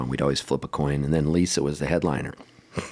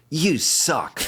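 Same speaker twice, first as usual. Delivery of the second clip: laughing insult; 8 semitones higher than usual. Retold or imitated. Woman insulting Rufus.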